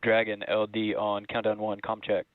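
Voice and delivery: heard over a radio link; astronaut radio. Real, not acted. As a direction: voice through a comm headset. Crew checks radio comm loops.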